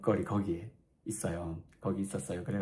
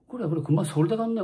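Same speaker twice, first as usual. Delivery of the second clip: excited; 9 semitones higher, 5 dB louder than usual. Retold or imitated. Vice principal on the phone.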